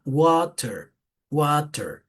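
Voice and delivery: American "water" with an A and a clear final R; American pronunciation. Shown as a demonstration. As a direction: open "water" into American "WAH-ter". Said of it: "acá si es una A".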